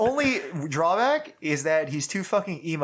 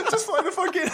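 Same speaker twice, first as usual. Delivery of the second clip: laughing while talking. Real, not acted. Laughing through the joke.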